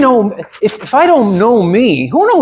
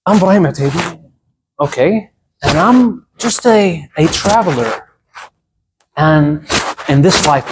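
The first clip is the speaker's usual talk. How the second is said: mock deep intro. Shown as a demonstration. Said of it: "try to be so deep".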